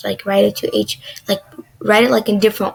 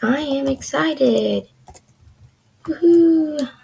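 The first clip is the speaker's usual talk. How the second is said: slow, high sing-song cheer; playful excitement; 4 semitones higher, slower than usual. Acted. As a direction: stretch it out in mock excitement. Voicing excited page text while typing.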